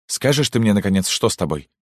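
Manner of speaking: sharp demand. Acted. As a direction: snap the question at her. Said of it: "резко спросила". (резко, требовательно)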